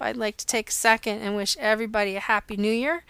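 hoarse from a cold; croaky, like a frog in the throat. Real, not acted. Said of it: "I swallowed a frog".

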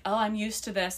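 feed someone their script casually; coaching a pretend line. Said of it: "and you be like".

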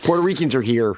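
Chicago accent demo; put-on Chicago vowels. Shown as a demonstration. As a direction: show how a Chicagoan says it. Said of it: "do the Chicago accent".

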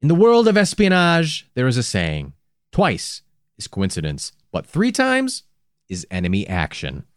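lightly voiced correspondent's quote; imitating a newsman's dramatic pronouncement; Henry Champ. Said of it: "Henry Champ put it".

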